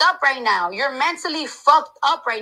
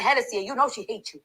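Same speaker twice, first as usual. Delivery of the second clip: mocking imitation; 7 semitones lower, 5 dB quieter, faster than usual. Imitating ex to family member.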